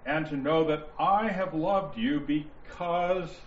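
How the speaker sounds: slow reading, "I" given extra weight; stress on I. Shown as a demonstration. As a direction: lean on "I" within the verse. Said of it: "You're going to hear me emphasize".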